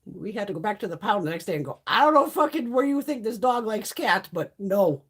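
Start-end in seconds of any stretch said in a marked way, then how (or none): 1.9-5.0 higher, emphatic mock complaint; retold indignation. Owner back at the pound, retold indignant complaint. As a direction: protest as if returning a bad deal.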